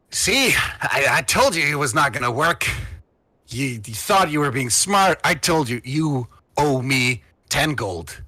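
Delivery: a touch of I-told-you-so needling; lightly voiced smug schemer. Hooded figure scolding partner over a lost bet, lightly voiced.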